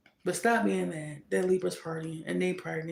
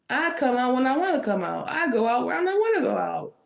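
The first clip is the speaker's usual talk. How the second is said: laughing defiance; 4 semitones higher than usual. Pretend.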